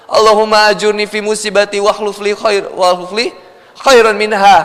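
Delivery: Arabic supplication recited steadily; recited prayer. Shown as a demonstration. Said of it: "cukup doain lagi". (doa dalam bahasa Arab)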